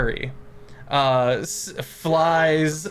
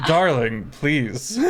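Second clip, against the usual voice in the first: laughing plea; 5 dB louder, slower than usual. Acted. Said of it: "And he goes".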